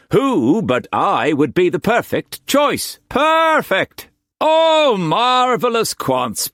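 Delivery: high, loud self-praising painter; gloating Quantz. A narrator's reading. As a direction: crow about yourself. Quantz gloating over the job.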